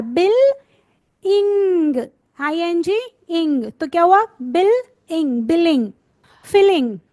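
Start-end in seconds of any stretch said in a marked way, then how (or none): 0.0-5.9 बिल then इंग, then joined as बिलिंग; syllable joining. Shown as a demonstration. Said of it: "break the word".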